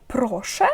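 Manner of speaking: "проше" with a questioning lilt; questioning intonation. Shown as a demonstration. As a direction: say "проше" as a request to repeat. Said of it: "із такою інтонацією".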